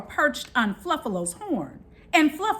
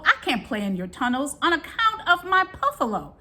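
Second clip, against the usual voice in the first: grumpy buffalo. Acted. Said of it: "cried Buffalo Fluffalo".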